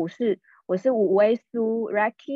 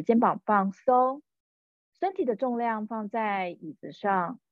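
guided meditation. Acted. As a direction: ease the listener into relaxing. Leads a meditation.

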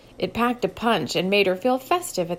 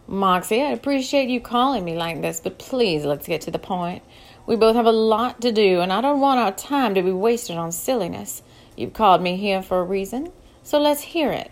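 impatient; 4 dB louder than usual. Acted. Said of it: "getting impatient".

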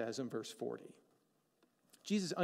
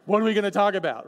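mock panic; 10 dB louder than usual. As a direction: play it as comic alarm at a "we should talk" text. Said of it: "And I'm like".

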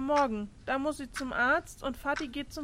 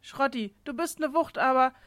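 rushing past, desperate to pee; hurried, urgent dash; needing the toilet; 5 dB louder than usual. Acted. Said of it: "ich muss mal durch".

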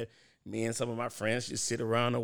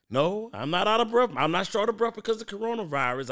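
emphatic denial; 8 semitones higher, 5 dB louder than usual. Real, not acted. Denies being sick, mock defensive.

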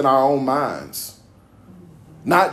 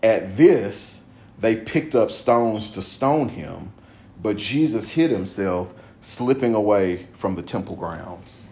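slow, lower-pitched narrative reading; scripture reading; 6 semitones lower, slower than usual. A narrator's reading. Preacher reading how they picked up stones, lowered scripture narration. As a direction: let the passage wind down, phrase by phrase. Reads narrative ending of passage.

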